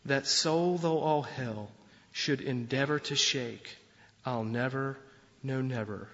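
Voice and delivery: solemn, measured reading of hymn verses; hymn recitation. Acted. Preacher recites a hymn to the congregation, solemn and measured.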